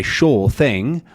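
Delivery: SHORE THING with SHORE as "shaw"; R dropped. Shown as a demonstration. Teacher showing non-rhotic phrase, dropped R. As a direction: leave the R off SHORE. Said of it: "lack of an R".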